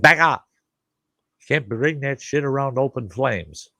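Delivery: high-pitched retold warning; urgent warning. Warning a hairy friend away from the barbecue, urgent. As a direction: act out warning someone back, voice jumping up.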